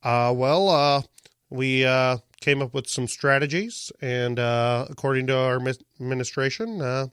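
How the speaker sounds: halting measured Obama cadence; lightly voiced Obama, pausing on uh; Obama impression. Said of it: "let's do Obama".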